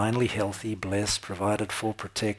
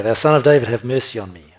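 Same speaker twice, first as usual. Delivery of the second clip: loud plea; 9 dB louder than usual. Retold or imitated. Blind man crying out.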